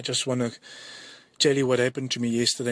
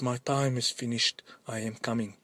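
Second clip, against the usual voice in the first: solemn voice of God; 3 semitones lower, 5 dB quieter than usual. Retold or imitated. God answers in the vision.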